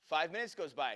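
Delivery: normal talking voice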